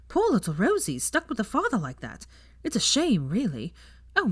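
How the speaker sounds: proud, breezy professor; chatty young witch. Acted. Teacher brags about her lessons to guests, breezily.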